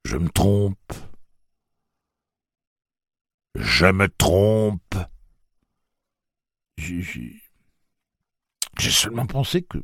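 high, anxious admission that falters; frightened stammer. A narrator's reading. Terrified Hoots answering Tic-Tac, nervous and faltering. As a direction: plead nervously, stumbling into an excuse.

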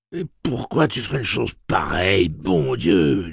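nearly snivelling protest; whining, almost whimpering. A narrator's reading. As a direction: complain as if about to cry. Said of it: "gémit Slightman, presque pleurnichard".

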